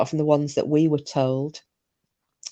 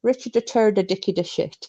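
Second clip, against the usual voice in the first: high Irish uncle voice, teeth clamped shut; imitating great uncle's clenched-teeth Irish accent; Irish accent through clenched teeth; 4 semitones higher than usual. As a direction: talk like a ventriloquist with a south Irish lilt. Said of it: "with his teeth tight together".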